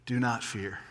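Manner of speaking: soft, low, calming words; gentle reassurance. Acted. King calming his friend's frightened son, gently reassuring. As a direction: quietly put the listener at ease.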